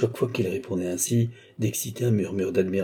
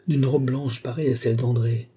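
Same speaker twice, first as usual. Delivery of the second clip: rising to a loud, high cry of the name; anguished exclamation; 5 semitones higher, 4 dB louder than usual. A narrator's reading. Brother finding a scrap of dress, anguished cry. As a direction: draw out the name, then cry it out. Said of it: "poussa un sanglot déchirant".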